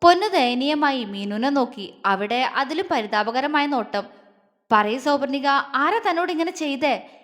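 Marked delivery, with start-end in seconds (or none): 4.7-7.1 raised voice. Acted. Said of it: "അവന്റെ ശബ്ദം വല്ലാതെ ഉയർന്നതുപോലെ".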